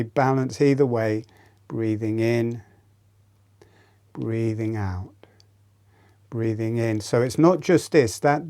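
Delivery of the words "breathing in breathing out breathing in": pace it gently to the breath; lowered, unhurried instruction; breathing cue. Shown as a demonstration. Counts out breaths while demonstrating.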